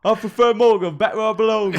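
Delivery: high, loud put-on parrot voice. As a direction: squawk it like a smug parrot. Voicing the parrot's preference.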